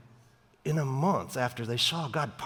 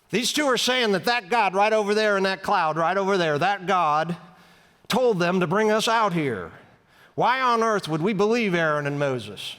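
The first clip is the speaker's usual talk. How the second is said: raised, higher voice stirring up a crowd; ringleader yelling at the crowd; 4 semitones higher than usual. Retold or imitated. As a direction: rouse the mob, a touch of a shout. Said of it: "he yells out at everybody".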